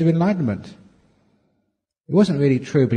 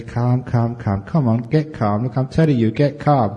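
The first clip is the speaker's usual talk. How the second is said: nagging the mind to calm. Shown as a demonstration. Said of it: "You can say".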